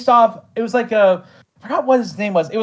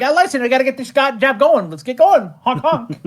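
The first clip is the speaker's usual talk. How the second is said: lightly voiced, slightly weaselly guy, a touch higher; a hint of a hustling little weasel urging everyone along; weaselly fella voice; 4 semitones higher than usual. Shown as a demonstration. Showing the interviewer the Dip voice, a mild weaselly guy. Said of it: "he kinda talks a bit like this".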